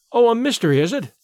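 a touch of eager excitement; intrigued cry. A narrator's reading. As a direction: exclaim with keen interest, lightly acted. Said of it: "I cried".

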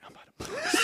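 squeaky high warning; high panic. Retold or imitated. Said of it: "I was like".

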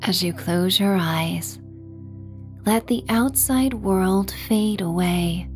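plain reading voice

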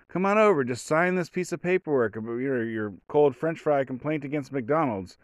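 high, sugary coaxing voice; coaxing cops. Retold or imitated. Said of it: "kinda tell by the tone of voice".

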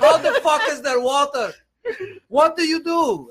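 hammed-up angry neighbor shouting through laughter; baffled Armenian neighbor. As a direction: squawk it like a bewildered old man. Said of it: "This old Armenian guy comes up".

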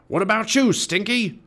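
high, loud pirate captain bellow; roared. A narrator's reading. Captain Bones questioning Stinky, pirate roar. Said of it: "Captain Bones roared".

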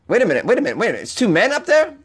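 rising to a high squeak; mock shock. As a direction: gasp in fake surprise. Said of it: "mock shock at new twist".

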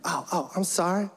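hammed-up eighties rapper, hesitant and apologetic. Guest walking into the kitchen to ask about dinner, eighties rapper voice. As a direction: play a sheepish eighties rapper caricature. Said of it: "I gave Andre an eighties black rapper voice".

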